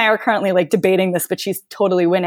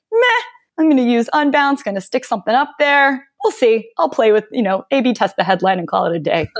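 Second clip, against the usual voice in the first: breezy shrug; 3 semitones higher than usual. Retold or imitated. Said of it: "she's like".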